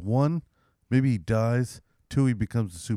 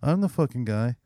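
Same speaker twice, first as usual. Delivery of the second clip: high, preachy self-righteous front; lightly voiced smug celebrity; Bill Cosby impression; 8 semitones higher than usual. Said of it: "So he was just like".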